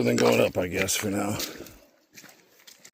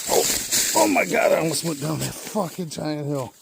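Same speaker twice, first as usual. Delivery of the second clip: startled; 5 semitones higher than usual. Real, not acted. Nearly falls down steep hill.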